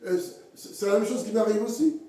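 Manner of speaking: ordinary talk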